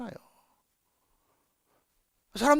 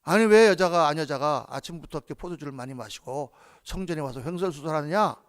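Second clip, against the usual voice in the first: scolding priest; 5 semitones lower than usual. Retold or imitated. Priest Eli scolding Hannah in the temple, mild mock rebuke. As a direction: scold her like a stern old priest, mildly. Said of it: "야단칩니다".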